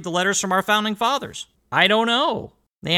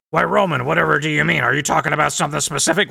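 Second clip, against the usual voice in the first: fast, faux-innocent protest; sarcastic host acting innocent to his listeners; mock innocence; faster than usual. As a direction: play dumb, all wide-eyed.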